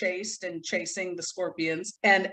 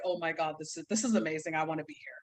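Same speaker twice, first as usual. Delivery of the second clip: hushed awe; 5 semitones lower, 7 dB quieter, faster than usual. Retold or imitated. Retelling own awed reaction.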